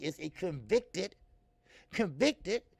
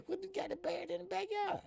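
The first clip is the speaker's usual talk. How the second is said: retold disbelief. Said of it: "I said".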